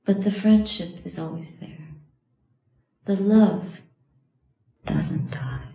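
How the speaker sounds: measured meditation guidance with long pauses; guided meditation. Real, not acted. Teacher guiding students to remember loved ones who died, meditative and measured. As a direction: guide them gently, phrase by phrase.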